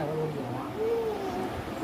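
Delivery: high, very slow drawn-out coo. Real, not acted. Cooing to the baby about his rash, high and slow.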